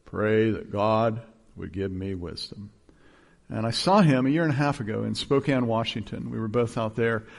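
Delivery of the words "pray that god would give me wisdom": slow, low imitation of Nace. Pastor imitating Nace on the phone, slow and low. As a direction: plead slowly like Nace. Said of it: "in every conversation".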